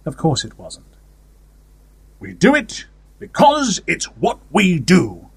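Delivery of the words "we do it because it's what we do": slow, higher-pitched quote of father's wisdom; imitating father. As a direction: slowly intone it as a father's mock-profound saying. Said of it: "One of my father's more profound statements".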